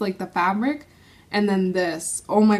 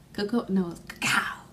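joking whisper; 3 semitones lower, 6 dB quieter than usual. Real, not acted. Joking about the name.

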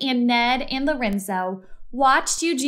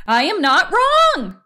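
louder, higher protest; indignant shout; 8 semitones higher, 6 dB louder than usual. A narrator's reading. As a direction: refuse to be doubted. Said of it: "Eugenia shouted".

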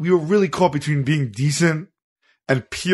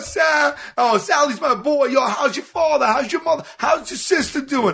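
much higher-pitched excitable greeting, imitated; mile-a-minute talker; 12 semitones higher than usual. Crackhead acquaintance gushing over his pal Sal, imitated mile-a-minute talker. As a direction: imitate a chatterbox firing off family questions. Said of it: "they would talk a mile a minute".

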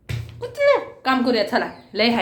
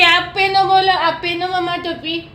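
put-on high, slightly loud "आप पहनो" modelled for the toddler; prompting the child; 5 semitones higher, 4 dB louder than usual. Shown as a demonstration. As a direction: say "आप पहनो" high and clear for her to copy. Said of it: "तू नाही बोलते".

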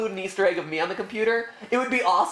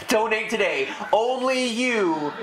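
home shopping host. Pretend. Mock charity appeal.

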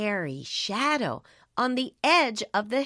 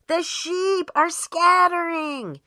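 mock panic; 7 semitones higher, 5 dB louder than usual. A narrator's reading. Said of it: "he screamed".

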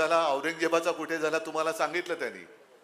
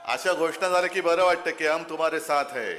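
fiery address to the crowd; rally speech. Real, not acted. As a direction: speak out to a packed rally.

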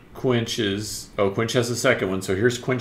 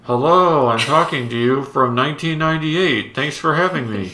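bad old audio; 3 semitones higher, 4 dB louder than usual. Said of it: "Their audio was, like".

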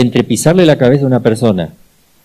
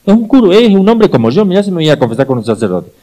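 much higher, louder mocking voice; mock atheist dismissing the priest; scoffing atheist; 7 semitones higher, 5 dB louder than usual. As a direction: scoff at confession like a sneering skeptic. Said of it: "Dicen los ateos".

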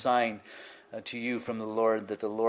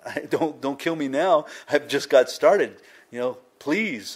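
higher pleading, lightly imitating tears; mock tearful begging; 3 semitones higher, 6 dB louder than usual. Preacher acts out sick king begging God to live, mock tearful pleading. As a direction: beg for your life, slowing into a drawn-out please. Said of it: "he's crying and he's weeping".

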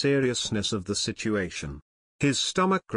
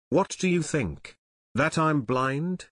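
angry bark; 3 semitones higher than usual. Acted. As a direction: jeer it like an insulted man. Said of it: "he barked".

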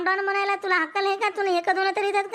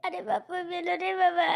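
crying, softer wail of pain; mock crying; 4 dB quieter than usual. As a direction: sob out that you're dying.

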